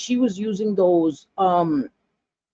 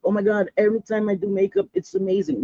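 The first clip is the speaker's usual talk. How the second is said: mock gushing; 3 semitones higher, faster than usual. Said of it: "I'm not like".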